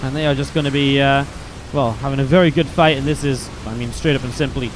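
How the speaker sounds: lively esports commentary, rising with the fight; hyped up play-by-play; play-by-play casting. Acted. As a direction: call the game like a caster. Casting a StarCraft match.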